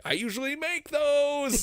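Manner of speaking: squeaky mock boss voice after missing a shot; imitating Michael. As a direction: toss it off like a shrugging excuse. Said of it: "he was like".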